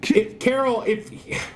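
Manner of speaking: high frantic pleading; panicked. Real, not acted. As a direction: stammer in a panic.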